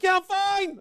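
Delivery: very high, loud yell. Retold or imitated. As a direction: insist too loudly you're fine. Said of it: "Why are you yelling?".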